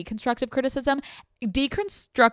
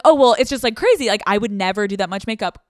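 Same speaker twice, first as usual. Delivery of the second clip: catty critic; 8 dB louder, faster than usual. Retold or imitated. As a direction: play the backhanded critic. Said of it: "And they're like".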